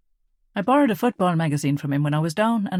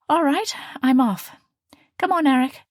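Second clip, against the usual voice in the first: calling out; 9 semitones higher, 5 dB louder than usual. A narrator's reading. Calling brother to leave.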